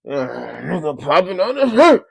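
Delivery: ordinary delivery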